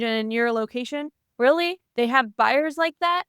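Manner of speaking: lightly mimicked co-host's incredulous rant; Glenn impression. Co-host mimics partner debunking secret buyers, light impression. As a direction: lightly imitate a skeptical co-host, rising at the end. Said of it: "that was my Glenn impression".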